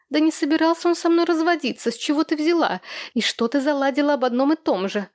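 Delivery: high, upset, close to tears; protest, voice straining toward tears; almost crying. A narrator's reading. Widow defending her marriage, nearly in tears. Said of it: "уже почти плакала".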